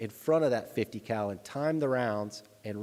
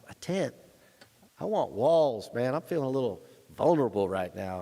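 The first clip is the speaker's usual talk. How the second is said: incredulous; 3 semitones higher than usual. Retold or imitated. Incredulous at tent.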